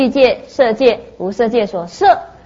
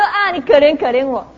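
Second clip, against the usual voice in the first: higher-pitched mock plea; imitating begging child; 4 semitones higher than usual. Beggar child opening his mouth to recite, high mock pleading. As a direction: slip helplessly into the beggar's line. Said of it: "就一开口又".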